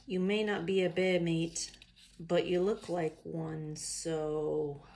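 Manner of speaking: casual reply in an attempted Australian accent. Mate replying to the complaining koala, attempted Australian accent. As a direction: answer back in amateur Australian. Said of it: "read this in an Australian accent".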